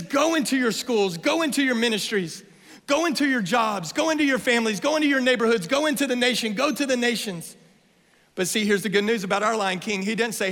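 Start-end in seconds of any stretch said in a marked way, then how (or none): 0.0-7.6 high, rhythmic run of commands; urgent exhortation. Real, not acted. Preacher sending the church into daily life, urgent. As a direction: drive each phrase forward in a chant-like list.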